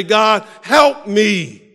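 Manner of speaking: slow, drawn-out "God, help me"; slow earnest plea. Acted. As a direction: plead each word slowly. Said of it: "cry out to God and say".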